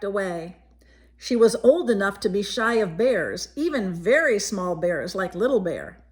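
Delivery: put-on gentle read-aloud voice for a child; story narration. A narrator's reading. Reading a picture book to a child, gentle storytelling. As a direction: tell it like a bedtime picture book.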